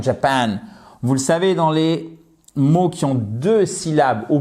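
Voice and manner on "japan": Japan with the second syllable stressed. Shown as a demonstration. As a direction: model Japan with weight on -PAN. (Japan accentué sur la seconde syllabe)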